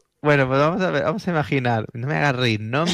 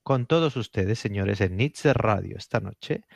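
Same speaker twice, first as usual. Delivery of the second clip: deliberate radio storyteller with weighty pauses; dramatic late-night documentary intro; suspense story narration; 2 semitones lower, slower than usual. Acted. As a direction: build to a slow, solemn reveal.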